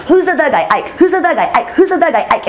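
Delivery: breathless with laughing disbelief; frantic questioning. Retold or imitated. Reporter running backstage asking everyone who the real guy is, laughing and frantic.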